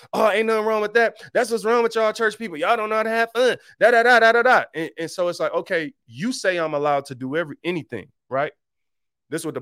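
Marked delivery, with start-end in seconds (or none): 0.1-4.6 higher, brisk mocking party-goer voice; mocking worldly friend. Mocking worldly friend teasing church people. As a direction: mimic the friend who thinks church folk are boring. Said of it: "I listen to people like".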